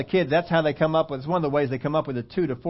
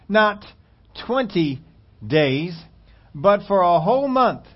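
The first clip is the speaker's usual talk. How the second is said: each word louder, climbing to a month; building emphasis; 4 semitones higher, 4 dB louder, slower than usual. Acted. Preacher stressing God's threat to the people, building. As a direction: punch it out word by word. Climax of scripture reading.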